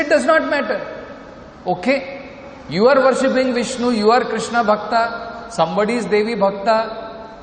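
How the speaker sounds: high, dismissive mock voice of the people he disputes; mocking the opponents. Preacher mocking those who say worship does not matter, high and dismissive. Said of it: "there are people who say like this".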